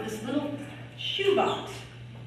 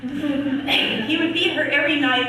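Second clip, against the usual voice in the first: laughing; 3 semitones higher, 5 dB louder than usual. Real, not acted. Laughs while repeating the grim line.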